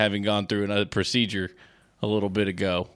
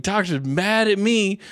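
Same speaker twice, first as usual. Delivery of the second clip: imitating dad; 8 semitones higher, slower than usual. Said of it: "He's like".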